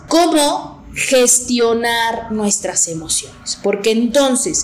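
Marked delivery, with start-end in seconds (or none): 0.1-3.6 slow emphatic question. Real, not acted. Announces the episode's main question.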